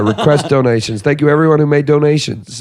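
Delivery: Australian attempting an American accent. Shown as a demonstration. Host reading the show's plugs on request, attempted American accent. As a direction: read it out in a put-on American accent. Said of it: "Read our plugs in American".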